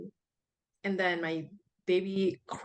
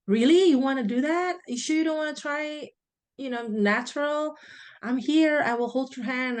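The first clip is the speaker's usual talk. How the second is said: higher, louder surprised midwife pleading; shocked midwife; 5 semitones higher, 4 dB louder than usual. Retold or imitated. Midwife, surprised, urging the mother to try natural birth. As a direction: coax her toward natural birth, startled. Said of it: "midwife at that time was kinda shocked".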